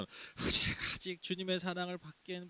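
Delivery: a hint of coy self-deprecation; false Korean humility. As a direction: play the overly modest believer. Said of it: "특히 이 한국적 겸손". (한국식 겸손을 흉내 내는 쑥스러운 말투)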